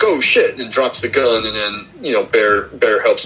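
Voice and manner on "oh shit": higher-pitched retold "oops" moment; mock startled reaction. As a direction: lightly imitate sudden dismay. Retold startled reaction, dropping the gun.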